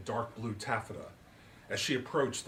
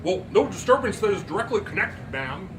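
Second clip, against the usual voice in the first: a hint of a nervous deputy; lightly voiced Barney Fife; 8 semitones higher, 8 dB louder than usual. Deputy to Miss Turpin, Barney Fife-like. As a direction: play it like a fussy small-town deputy. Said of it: "He does talk like Barney Fife".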